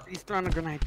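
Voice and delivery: sudden high alarmed call; grenade warning yell. Real, not acted. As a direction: shout the warning fast.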